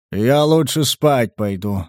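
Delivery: lightly voiced slow giant; drawn-out, unhurried character line. Giant announcing he is off to bed, slow voice. Giant excuses himself to sleep.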